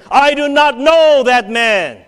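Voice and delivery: loud, high, slow sworn denial; cursing and swearing. Acted. Peter cursing at the bystanders, a loud slow shout. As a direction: swear it out furiously, word by word. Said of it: "he began to curse and swear".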